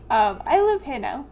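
laughing. Acted. Repeated, laughing.

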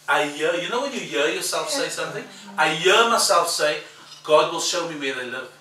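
he blurts it out, amazed at himself; loud excited retelling. Retold or imitated. Preacher to congregation, loud amazed blurt. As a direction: voice surging loud and high.

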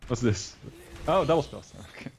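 ordinary talk, nothing marked

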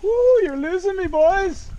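loud high call to riders ahead. Real, not acted. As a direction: shout after friends pulling away.

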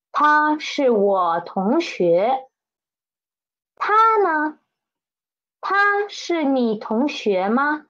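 teacher reading a textbook dialogue aloud; slow model dialogue reading. Shown as a demonstration. Teacher reads the dialogue to the class, slow and clear. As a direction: read each line slowly and clearly for learners. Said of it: "I'm gonna read it and please listen carefully".

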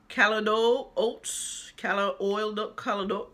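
stumbling over "calendar", sounds garbled each try; fumbling a word. Real, not acted. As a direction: trip over "calendar" as if your tongue is too big. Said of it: "I can't get it together. My tongue too big".

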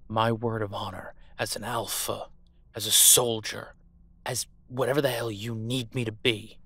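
swearing an oath. Acted. Pleading oath, rising in force.

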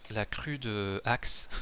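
"crue de axe" read slowly, French style, syllable by syllable; slowly mangling the English name; Frenchified crude axe. Shown as a demonstration. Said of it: "vieille axe en français".

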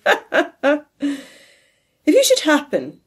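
loud, high laughter into slow words; laughing. A narrator's reading. Nephew still laughing at Scrooge, loud and slow. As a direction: laugh through the start of the line. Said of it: "laughed Scrooge's nephew".

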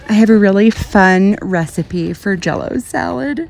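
gushing Utah accent, lightly hammed up; Utah local. Showing off Utah sayings to viewers, playful Utah accent. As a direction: gush cheerily like a Utah local. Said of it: "little things like that we like to say".

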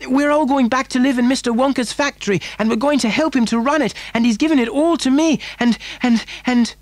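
high, breakneck gush of news; excited child. A narrator's reading. Boy telling his mother the news, excited rush. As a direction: tumble it out fast and high, stumbling at the end. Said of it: "cried Charlie".

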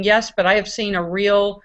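ordinary delivery

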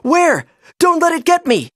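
very high, frightened little-fish squeal; tiny panicked voice. A narrator's reading. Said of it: "a tiny voice said nervously".

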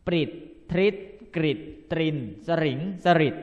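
ปริด ทริด กริด with ฤ said as the short vowel ริ; ฤ sounded ริ in every word; ฤ read as ริ. Shown as a demonstration. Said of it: "ให้ออกเสียงเป็นอิ".

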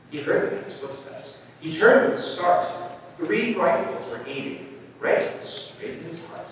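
dramatic picture-book telling; story narration. A narrator's reading. Reader tells of hunters sneaking up, suspenseful storytelling. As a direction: build suspense with short pauses.

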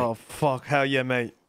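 badly faked British accent; mock British accent. Mimicking the British lawyer, mock British accent. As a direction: imitate his British twang. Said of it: "Don't sound like that".

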